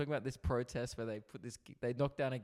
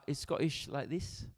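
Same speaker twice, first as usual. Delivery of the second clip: slow, weird British take on Scottish; failed Scottish accent. Shown as a demonstration. Host attempting Scottish on request, in a weird British accent. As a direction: try a Scottish accent and miss. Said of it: "That's more br-, weird British".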